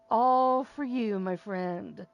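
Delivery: loud and drawn out; loud dedication. Real, not acted. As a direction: call it out to him. Dedicating joke to a friend.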